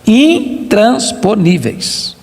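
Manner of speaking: intransponíveis drawn out slowly, falling; slow emphatic repeat. Acted. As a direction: stretch out "Intransponíveis" for weight. Repeats word slowly for weight.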